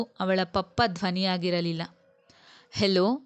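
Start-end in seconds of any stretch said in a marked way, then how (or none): 2.7-3.2 lightly voiced little girl calling out; sweetly calling child. A narrator's reading. Little daughter calling Papa on the phone, sweetly. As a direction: call out in short, cute, childlike bursts. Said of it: "ಮುದ್ದು ಮುದ್ದಾಗಿ ಕೂಗುತ್ತಿದ್ದಳು".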